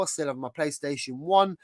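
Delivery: ordinary talk, nothing marked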